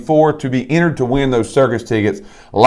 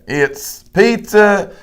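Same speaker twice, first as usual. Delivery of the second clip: put-on higher, slow whiny kid's request; mimicking a kid's request; 6 semitones higher, much slower than usual. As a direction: lightly imitate a child asking for pizza. Mimicking family members' dinner requests.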